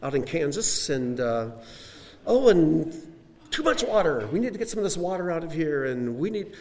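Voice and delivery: a hint of a bossy decorator rearranging; fussy interior decorator. Preacher imitating a decorator reorganizing creation, lightly fussy. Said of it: "the interior decorator probably came along and said".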